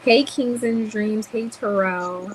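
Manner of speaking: drawn-out welcoming shout-out; hyped greeting. Real, not acted. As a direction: call the guests in like you're glad they came. Host greets guests on stream.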